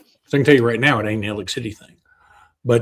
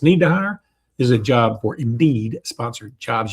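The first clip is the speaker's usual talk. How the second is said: upbeat sponsor read. Acted. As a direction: read it like a radio ad.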